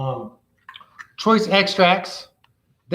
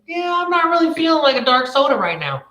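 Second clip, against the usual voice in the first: bored customer brush-off; 9 semitones higher than usual. Retold or imitated. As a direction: play the customer turning the salesman down, lightly.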